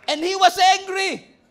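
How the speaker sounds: slow, loud, high laughing line; laughing, drawn out. Acted. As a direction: laugh through the words. Laughs into dramatic narration.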